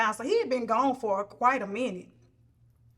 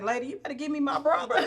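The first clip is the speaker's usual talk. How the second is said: demanding; 3 semitones higher, faster than usual. Retold or imitated. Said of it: "he was like".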